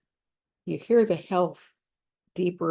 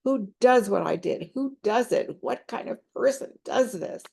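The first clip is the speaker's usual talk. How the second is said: higher, pleading, half-sobbed questions; imitating a crying client; 5 semitones higher than usual. Counselor voicing a crying client begging for answers, mildly tearful. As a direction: echo her distress, voice lifted and strained. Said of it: "still crying".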